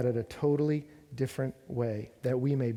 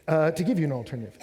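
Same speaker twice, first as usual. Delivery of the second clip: louder, faster restart with punch on "give"; doing it properly; 2 semitones higher, 6 dB louder, faster than usual. Shown as a demonstration. Preacher restarting his point to the congregation, louder and faster. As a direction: relaunch the line with conviction and hit "give". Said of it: "let me, let me just do it".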